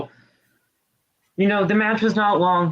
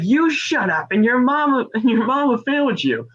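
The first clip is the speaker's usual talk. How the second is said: higher-pitched imitated retort; mock comeback; 7 semitones higher than usual. Ronda firing back at a heckling fan, mock comeback. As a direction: act out a trash-talking comeback.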